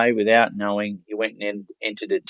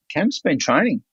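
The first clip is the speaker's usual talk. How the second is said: excited report; 5 semitones higher than usual. Retold or imitated. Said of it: "he said".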